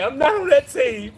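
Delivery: teasing imitation of the friend; mimicking his friend. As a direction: drag it out like the friend's excuse. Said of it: "We say".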